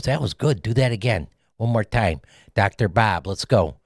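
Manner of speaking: imitating a Chicago director's accent; lightly hammed-up Chicago accent, directing an actor; hardcore Chicago accent. Director asks the actor for another take, hardcore Chicago accent. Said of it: "He's got a hardcore Chicago accent".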